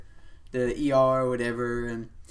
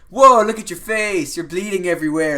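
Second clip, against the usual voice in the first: shocked; 5 semitones higher, 10 dB louder than usual. Retold or imitated. Friend shocked at blood.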